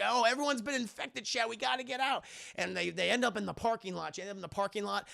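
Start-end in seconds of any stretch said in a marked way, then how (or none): 0.0-2.2 higher-pitched urgent warning; mock panic, pitched up; acted alarm. Students seeing everyone infected, acted alarm.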